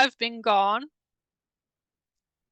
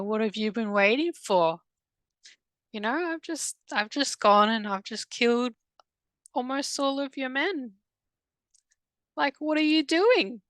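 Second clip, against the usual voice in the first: mocking sing-song, pitched higher; taunting creature; 5 semitones higher than usual. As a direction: jeer at her like a gloating fallen angel. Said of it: "it's taunting me".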